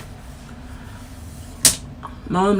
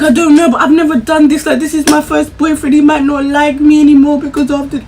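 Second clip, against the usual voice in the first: retold hysterical crying; 5 semitones higher, 4 dB louder than usual. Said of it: "I was hysterically crying".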